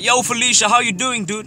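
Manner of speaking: high, hearty hail to a pal; upbeat greeting. Acted. Man greeting his acquaintance Felicia, upbeat and high. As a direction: call it out high and friendly.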